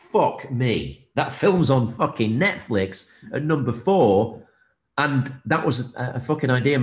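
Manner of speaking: amazed excitement. Real, not acted. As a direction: savour every word of the disbelief. Marvelling at his film's success.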